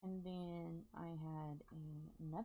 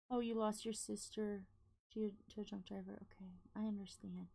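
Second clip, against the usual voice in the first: hushed whisper, almost voiceless; 3 semitones higher, 4 dB louder than usual. Real, not acted. Reading a viewer's loss, whispered gently. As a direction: soften right down out of respect. Reading a sad comment aloud softly.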